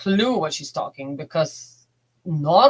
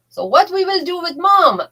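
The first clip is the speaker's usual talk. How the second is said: dad teasing; 11 semitones higher, 5 dB louder than usual. Retold or imitated. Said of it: "And he was like".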